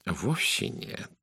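soft, slow, genial reassurance; kindly and unhurried, soft-voiced; good-natured. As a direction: gently wave the apology away. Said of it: "добродушно ответил Пуаро".

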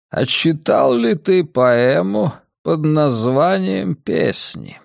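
a frail, scheming old man, lightly voiced. Old man character speaks.

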